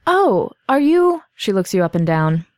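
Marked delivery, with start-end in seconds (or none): 0.1-1.2 higher, drawn-out surprised question; a touch of wary surprise. Acted. Shopkeeper NPC reacts.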